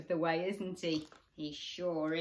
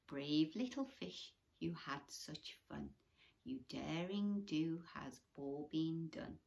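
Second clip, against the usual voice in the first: storybook reading. A narrator's reading. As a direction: read the ending gently. Reading picture book aloud.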